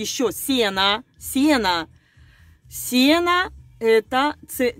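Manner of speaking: ordinary delivery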